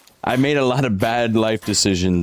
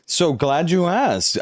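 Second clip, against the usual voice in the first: slow, drawn-out and higher, playfully overjoyed; mock delight; 5 semitones higher, much slower than usual. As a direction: savour every word like it's the best question ever. Streamer answers chat question.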